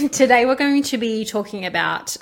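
giggling, loud and bright; laughing. Real, not acted. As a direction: restart the intro through laughter. Restarts intro laughing.

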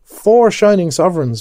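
high, loud cry of delight. Acted. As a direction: crow it out with glee. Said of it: "cried with delight".

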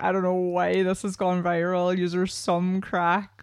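lightly voiced Irish lad, last words slow; a hint of the fitness guy, slowed at the end; imitating the fitness guy. Podcaster quoting the fitness guy's video, lightly voiced. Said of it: "he does a video being like".

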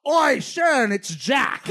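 A rock singer. Retold or imitated. Father calls to his wife from the audience, full voice. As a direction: call out with no attempt to whisper. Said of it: "full voice, like, not even trying to whisper".

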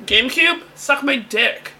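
hammed-up dismissal; mock trash talk. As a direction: insult it with mock contempt.

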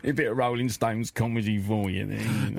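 light rock-singer voice; lightly voiced aging rocker; rock-singer impression. Host plays a rock singer as a studio guest, lightly voiced. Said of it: "please come in".

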